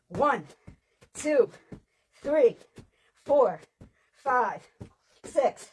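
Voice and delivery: loud coach count, each number punched; counting reps. Acted. Coach counting plank reps loudly for the class. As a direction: drive them through the set, number by number.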